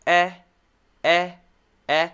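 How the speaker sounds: eh said clearly as in bed; short e. Shown as a demonstration. Teacher sounding out short e. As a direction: model the short e. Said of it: "The short E sound".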